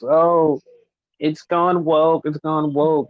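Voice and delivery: drawn-out mock whine of a complainer. Fed-up ranter imitating fans mad at a show, mocking. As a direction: stretch the words in mock outrage.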